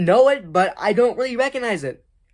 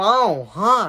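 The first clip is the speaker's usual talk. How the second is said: goofy put-on character voice; 2 semitones lower than usual. Speaker revives a voice unused for years: put-on character voice. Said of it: "I haven't done that voice in actually probably a year or two".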